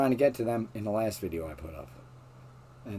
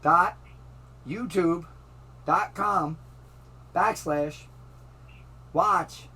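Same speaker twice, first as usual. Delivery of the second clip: slow, spelled out letter by letter; slow dictating; 5 semitones higher, much slower than usual. Real, not acted. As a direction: dictate each part with pauses. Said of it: "you gotta talk slower".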